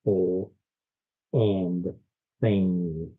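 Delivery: stuffed-up nose voice; blocked nose. Real, not acted. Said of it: "I'm still stuffed up".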